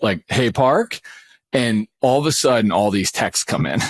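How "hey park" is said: "Hey, Park" again in a light, sing-song call; trigger phrase "Hey, Park". Shown as a demonstration. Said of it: "with that type".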